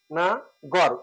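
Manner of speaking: না and গড় said as two separate beats; syllable by syllable. Shown as a demonstration. Teacher showing the class how it divides, না and গড় separated. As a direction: split it into না, then গড়, with a pause. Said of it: "উচ্চারণ হবে না".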